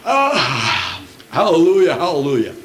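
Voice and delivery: a yawn turning into a careless hallelujah; lightly mock a sloppy worshipper mid-yawn; mild hammed-up yawn hallelujah. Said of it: "They'll just go".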